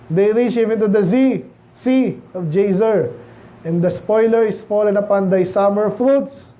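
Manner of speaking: slow, measured Bible reading; scripture reading. Acted. Pastor reading Isaiah to the congregation, slow and solemn. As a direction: read the verse slowly and solemnly.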